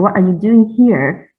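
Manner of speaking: "here" stressed at the question's end. Shown as a demonstration. Presenter showing emphasis on the place, stress on "here". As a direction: put the weight on the final "here". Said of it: "is with emphasis on the place".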